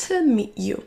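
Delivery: "To" shrunk to a weak t-schwa, "meet" stressed; reduced TO. Shown as a demonstration. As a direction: swallow the vowel of "To". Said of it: "Le to va se réduire en t". (To réduit en t)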